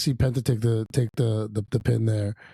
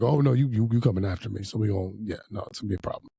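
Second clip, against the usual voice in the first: mock threat. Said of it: "with an inflection and tone like that".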